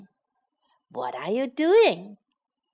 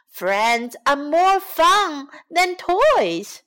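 slow, carefully spaced, a bit higher; slow model read; 5 semitones higher, 4 dB louder, slower than usual. Shown as a demonstration. Teacher slowly modelling the lesson line for kids. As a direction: lay each word down for children to copy.

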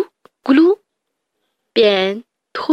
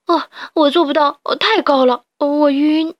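higher frightened complaint; too scared to climb down; mild mock dizziness; scared whimper; 4 semitones higher than usual. Sheep stuck high, dizzy.

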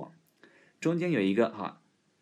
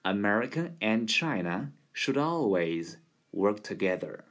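even pace reading; steady demo. Shown as a demonstration. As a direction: run the whole sentence at a steady pace. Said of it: "匀速再来一遍".

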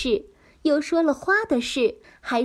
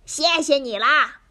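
smiling voice; 3 dB louder than usual. Acted. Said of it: "笑嘻嘻地说".

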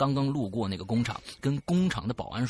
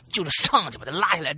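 ordinary delivery

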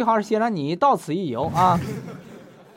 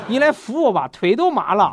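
words squeezed out through real laughter, louder; can barely read the message for laughing; laughing while reading; 4 semitones higher, 8 dB louder than usual. Real, not acted.

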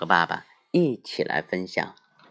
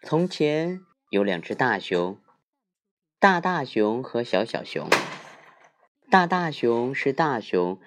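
put-on reading to children. A narrator's reading. Father reads bedtime story.

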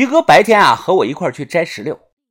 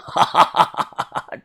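sinister laugh. Acted. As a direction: chuckle darkly to yourself. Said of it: "大笑道".

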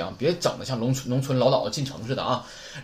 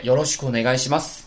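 louder, bowing while saying it; polite bow phrase; 4 dB louder than usual. Shown as a demonstration. Teacher showing the business card greeting, louder. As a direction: say it as you hand over a card. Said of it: "然后鞠躬".

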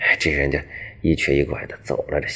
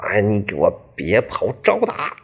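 mock battle cry; slower than usual. Young man charges to fight.

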